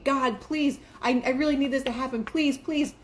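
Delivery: lightly acted pleading; mock begging prayer. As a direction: imitate someone desperately begging. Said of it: "Not begging".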